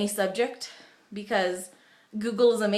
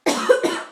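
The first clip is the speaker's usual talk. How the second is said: strained cough; 12 semitones higher, 6 dB louder than usual. Real, not acted. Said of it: "I can't do that really well 'cause it hurts my throat".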